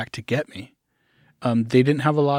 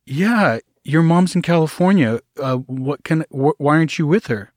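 higher and louder, caught off guard; surprised lady; 4 semitones higher, 4 dB louder than usual. Retold or imitated. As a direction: sound startled that he is not with his mother. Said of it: "she's like".

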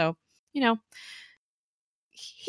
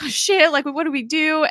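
higher, mock panicked; a touch of hammed-up panic; 10 semitones higher, 4 dB louder than usual. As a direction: play it like scared ghosts. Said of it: "they're like".

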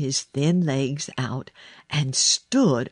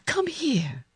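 high-pitched call without force; lightly acted shout; mild narrated shout; 11 semitones higher than usual. A narrator's reading. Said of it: "he shouted to Dickon".

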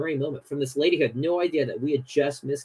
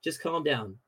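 calm God voice; slower than usual. Retold or imitated. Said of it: "God essentially says".

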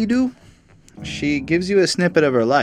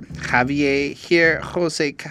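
higher, drawn-out name calling; teacher doing roll call; 4 semitones higher, much slower than usual. Acted. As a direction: read names off the register, pitched up. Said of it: "a teacher doing roll call in class".

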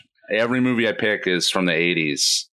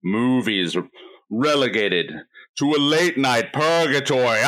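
Vincent Price voice. Acted. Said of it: "your Vincent Price voice".

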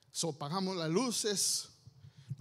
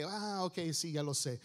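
low, offhand yeah-I-know; mock bored acknowledgement; dismissive cliché response; 4 semitones lower, 3 dB quieter than usual. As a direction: brush it off as old news, dropping lower. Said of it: "algo cliché, algo como que".

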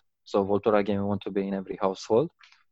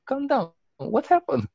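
soothing host. Retold or imitated. I was like.

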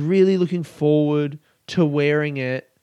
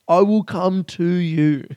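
slow, drawn-out menace at a higher pitch; slower mock menace; 4 semitones higher, slower than usual. Comedian to his listeners, slow mock-villain threat. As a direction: stretch each word like a movie villain. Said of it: "I'm trying to get angry".

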